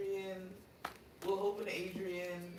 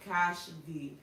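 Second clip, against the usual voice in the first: name said louder and clearer; to someone hard of hearing; 7 dB louder than usual. Real, not acted. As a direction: repeat it louder so she hears. Correcting misheard name again, louder.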